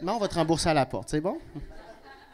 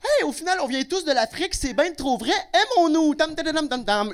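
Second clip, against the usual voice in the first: much higher and louder, mock-euphoric hippie chant; born-again convert; 8 semitones higher, 4 dB louder than usual. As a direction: sing out new love for all, drumming tam tam. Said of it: "commence à dire à voix haute". (un raciste réformé, euphorique, qui chante tam tam)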